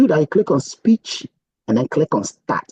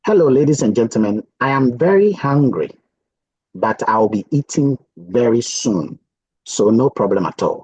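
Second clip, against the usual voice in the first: careful dictation; 4 semitones lower than usual. Shown as a demonstration. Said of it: "So I'm gonna say something".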